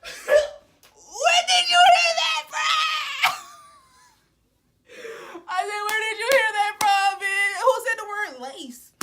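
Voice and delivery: high, loud, laughing disbelief; laughing outrage. Retold or imitated. To her friend accusing her of lacing, laughing outrage. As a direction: shriek it through laughter, outraged.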